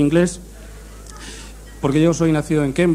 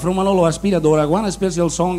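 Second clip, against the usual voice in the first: mock announcer; 3 semitones higher than usual. A singer announces his song in a mock showman voice. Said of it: "dice así".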